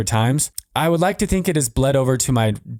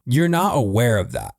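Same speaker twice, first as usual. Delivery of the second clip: ordinary talk, nothing marked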